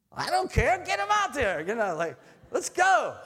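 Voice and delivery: high, loud game yell; sideline yelling. Retold or imitated. Dad yelling at daughter's game, high and loud. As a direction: holler at the field.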